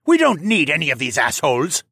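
loud, scornful protest; arguing. A narrator's reading. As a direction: dismiss them hotly over the fight. Theo goes on arguing in battle.

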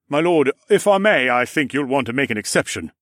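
lightly voiced guard, amused; a hint of a respectful guard.

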